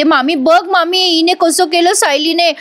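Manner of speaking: high, whiny mock complaint; drawn-out fake lament to auntie; staged fuss. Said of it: "मोठ्याने आरडाओरडा करते".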